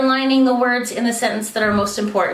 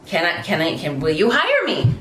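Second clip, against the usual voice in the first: insecure asking; 5 semitones lower than usual. Retold or imitated. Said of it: "insecure thing that happens for women".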